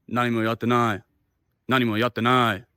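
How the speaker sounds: put-on Japanese with a slight foreign accent. Big man denying it to him, lightly foreign-accented Japanese. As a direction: say it with a non-native Japanese accent. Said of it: "little bit of a foreign accent like I did".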